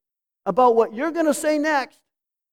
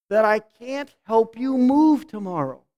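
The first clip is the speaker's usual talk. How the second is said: gentle reflective demo. Shown as a demonstration. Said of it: "It would be something like this".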